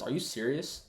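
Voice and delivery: mildly heated, aggrieved complaint; pissed-off son. Retold or imitated. Loyal son protesting to his father, moderately angry. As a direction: retell a loyal son's indignant protest. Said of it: "he's pissed off".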